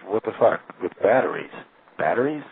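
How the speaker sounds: imitating scoffing disbelief; incredulous retold sarcasm; sarcastic disbelief. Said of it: "it was like".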